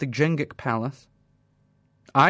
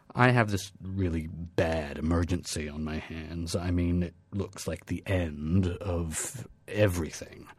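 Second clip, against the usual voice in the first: sheepish plea; 8 semitones lower, 7 dB quieter than usual. Acted. President pleads, sad.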